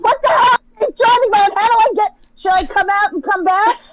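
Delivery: high, loud flustered complaint; rising exasperation at the tech; exasperated. Real, not acted. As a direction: burst out, baffled by the phone. Baffled by safe driving mode.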